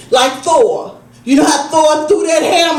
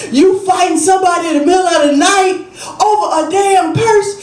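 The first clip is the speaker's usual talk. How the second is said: incredulous laugh; 5 semitones higher, faster than usual. Retold or imitated. Disbelief at mom fighting.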